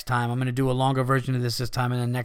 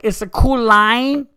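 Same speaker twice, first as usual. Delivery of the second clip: high, loud, slow mock Asian accent; 9 semitones higher, 9 dB louder, slower than usual. Casino customer repeating the drink's name, mock Asian accent. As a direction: exaggerate an Asian accent, stretching the words. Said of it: "in this Asian voice".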